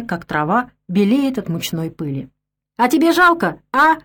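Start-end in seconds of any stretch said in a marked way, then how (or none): 2.8-4.0 put-on sudden raised bark at the old man; barking retort. A narrator's reading. Drunk Stepan barks at the grumbling old man, angry bark. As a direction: snap it at him, higher and louder. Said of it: "рявкнул Степан".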